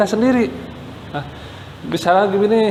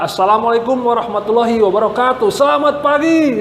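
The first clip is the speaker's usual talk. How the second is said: chest-voice opening; 2 semitones higher than usual. Shown as a demonstration. Speaker demonstrating a chest-breath stage opening, projected. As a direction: open the stage boldly from the chest. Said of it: "itu dalam pembukaan".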